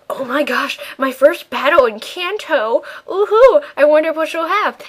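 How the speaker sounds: high giddy excitement; excited squeal. Retold or imitated. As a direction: gush like a thrilled fan. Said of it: "I'm like".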